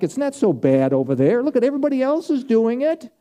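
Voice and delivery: tempting voice. Retold or imitated. Preacher voicing the flesh luring believers back, coaxing. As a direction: lure them back like the old sin nature.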